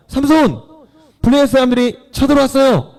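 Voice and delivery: high-pitched urgent calling out; acted alarm call. Delilah warning Samson of attackers to test him, high alarm call.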